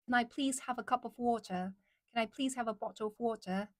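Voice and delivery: careful British accent demo; British, each word pronounced with care. Shown as a demonstration. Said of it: "Like that, right?".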